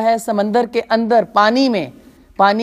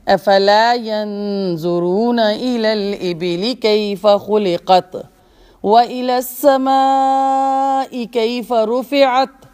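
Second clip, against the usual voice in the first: Quran recitation. Acted. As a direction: recite the verses like a qari.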